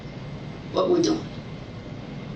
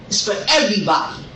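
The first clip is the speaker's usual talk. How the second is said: building from firm to shouting; real anger swelling into a shout; angry rant; 5 semitones higher than usual. Real, not acted. Protesting arrest, escalating rant.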